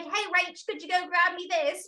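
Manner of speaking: lightly voiced boss asking a favour; imitating the boss. The old boss asks her to grab something, lightly voiced. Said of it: "He'd be like".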